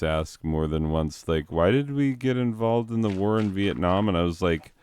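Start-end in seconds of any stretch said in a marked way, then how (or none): 1.5-4.1 higher-pitched imitation of a puzzled student; lightly voiced student. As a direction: ask it as a mock naive pupil. Students' question retold.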